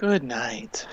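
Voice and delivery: slowed-down, drawn-out delivery. Signing off, asked to say goodnight more slowly, saying it slower. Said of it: "Say it slower".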